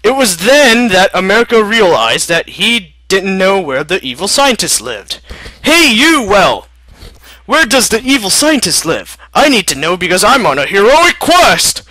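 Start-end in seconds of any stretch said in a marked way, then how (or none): 5.6-11.8 higher, louder hail across the water; calling out. Acted. America calling out to a whale, loud and high. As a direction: shout to get the whale's attention.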